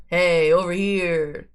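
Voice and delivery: slow loud call across the room. Acted. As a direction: call out slowly. Voicing game character call.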